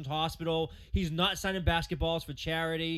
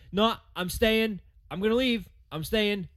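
higher, louder mock whining; mocking imitation of a waffling star; mocking flip-flop; 4 semitones higher, 3 dB louder than usual. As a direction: parody his back-and-forth. Mocking Kyrie's flip-flopping.

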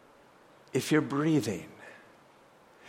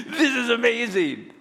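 amazed delight; 5 semitones higher than usual. Acted. Voicing joy in heaven.

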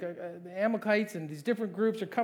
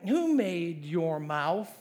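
slow, deliberate rhetorical question; God's pointed question; much slower than usual. Acted. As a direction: stretch each word, rising at the end. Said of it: "then the Lord said to him".

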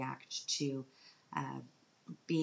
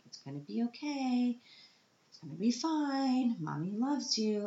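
forced cheerful voice fighting tears; holding back tears; 9 semitones higher than usual. Retold or imitated. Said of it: "trying not to sob uncontrollably".

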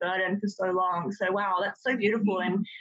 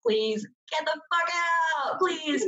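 urgent plea; 8 semitones higher, slower than usual. Real, not acted. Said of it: "urging listeners to leave toxic homes".

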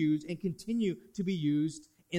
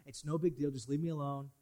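dismissive Cain; 3 semitones lower, 7 dB quieter, faster than usual. Retold or imitated. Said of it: "Cain was like".

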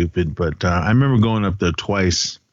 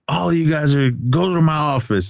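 higher-pitched retold reprimand; mild mock telling-off; 5 semitones higher than usual. Teacher lighting into everyone, mild mock telling-off. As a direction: imitate an angry order without much volume. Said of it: "he just lit into everyone".

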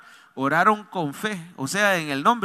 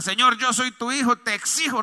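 higher-pitched demand; demanding order; 4 semitones higher than usual. Shown as a demonstration. Pastor showing how not to pray, higher demanding voice. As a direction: demand it of God as an entitled child. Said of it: "Ni es una orden".

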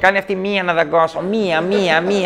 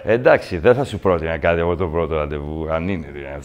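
much lower, trailing off into a mumble; a lowered, sheepish male voice; deep mock man's voice; 13 semitones lower than usual. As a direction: play the nervous guy dropping his voice. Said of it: "ο άντρας λέει ψέματα".

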